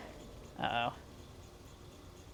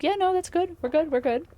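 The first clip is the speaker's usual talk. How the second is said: mock chat voice; 12 semitones higher, 4 dB louder than usual. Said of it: "if everyone's like".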